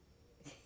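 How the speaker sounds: brief, quiet chuckle; a small voiceless laugh at yourself; real muted laugh; soft laugh. Real, not acted. Laughs about the novena.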